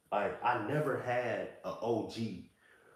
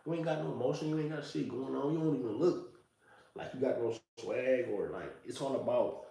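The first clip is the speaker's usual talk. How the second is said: lightly voiced scornful kid, brushing off elders; mock dismissive youngster; 3 semitones higher than usual. Today's youth dismissing older men, lightly mocking scorn. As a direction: sneer it like a teen who thinks the old heads are corny. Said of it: "The Y Ns of today".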